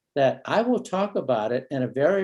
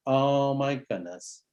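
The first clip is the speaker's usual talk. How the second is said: slow sympathetic sigh; much slower than usual. Shown as a demonstration. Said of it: "ready for a bit of vulnerability".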